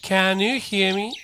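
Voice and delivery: slow "Can you hear me", rising, "can you" as "kanyu"; linked model. Shown as a demonstration. Teacher repeats "Can you hear me" for the class, linked. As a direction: run "can" into "you" without a break. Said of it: "ちょっと言ってみてください".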